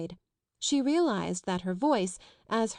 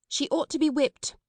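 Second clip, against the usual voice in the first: proclaimed; 7 semitones higher, 4 dB louder than usual. A narrator's reading. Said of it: "Miss Minchin proclaimed".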